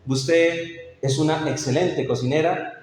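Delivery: heartfelt compliment, said like you mean it; a husband sincerely praising his wife's cooking; sincere praise. Shown as a demonstration. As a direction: praise her cooking with real feeling. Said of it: "y se lo digo con sentido".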